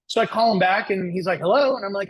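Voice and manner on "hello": high, loud British phone hello; pitched-up, mock British greeting; British accent. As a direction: lightly mimic a British man answering. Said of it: "from a guy with a British accent".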